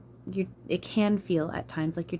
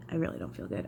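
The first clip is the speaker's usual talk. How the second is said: real sick groan of a line, lower and softer; nauseous, low; 8 semitones lower, 6 dB quieter, faster than usual. Real, not acted. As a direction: sink low, feeling about to throw up. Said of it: "I really feel like I'm about to be sick".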